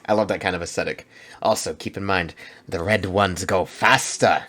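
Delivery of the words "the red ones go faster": slow attempt at a Cockney orc line; a failed try at orc Cockney, slow; failed Cockney accent. Quoting orc lore in a failed Cockney accent. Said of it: "That was not a Cockney accent".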